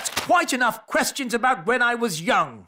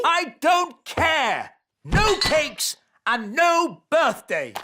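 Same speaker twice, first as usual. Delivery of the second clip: angry; 4 semitones higher, slower than usual. Acted. King refuses his birthday.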